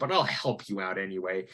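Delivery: mock-condescending tone. Describing a man's how-to video, imitating his condescending tone. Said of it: "He sounded condescending there".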